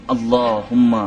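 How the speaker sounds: slow, loud mock supplication; mock pleading penitent. Mimicking the man begging to save his seat, mock pleading. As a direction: imitate a man begging, drawn out. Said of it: "کس طرح گلگلا رہا تھا".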